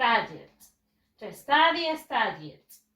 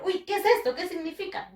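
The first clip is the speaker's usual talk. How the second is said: higher-pitched mock bewilderment; puzzled reaction; 6 semitones higher, faster than usual. Teacher voicing a baffled reader of a wrong spelling, puzzled. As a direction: act out someone baffled by a misspelling. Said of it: "la misma va a decir".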